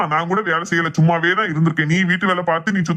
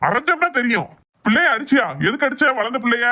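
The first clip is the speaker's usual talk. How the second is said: higher-pitched angry demand; 5 semitones higher than usual. Acted. Father confronts his wife for hitting their grown daughter, angry. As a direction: scold with a raised pitch, demanding an answer. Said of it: "என் கோவத்தை கிளறாத".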